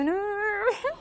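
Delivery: high, screechy whine, imitated briefly; mock a grating little whiny voice; whiny screech. Guest mocks a housemate's grating voice, high screechy whine. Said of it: "screechy, whiny little voice on her".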